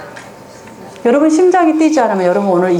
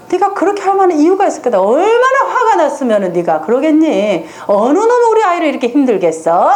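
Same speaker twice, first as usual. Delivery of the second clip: put-on higher, quick and indignant on the child's behalf; sympathetic mother; 5 semitones higher than usual. A mother sympathizing with her angry child, pitched up and fast.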